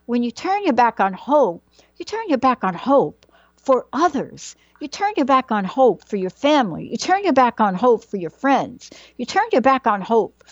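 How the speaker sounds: lightly imitated Southern mom, insistent and repetitive; mom's Southern accent. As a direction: go on like a Southern mother to her girls. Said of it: "in a little Southern accent".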